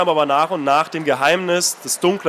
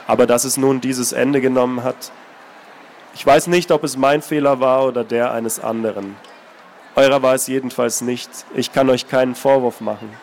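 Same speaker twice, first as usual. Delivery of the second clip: put-on lower, heavy, sighing old voice; weary old man; 5 semitones lower than usual. Old man explaining to Anna, burdened weary voice. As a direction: speak as if under a heavy burden.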